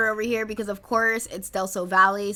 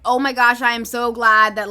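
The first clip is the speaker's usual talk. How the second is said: excited; 7 dB louder than usual. Acted. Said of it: "Susan is just excited".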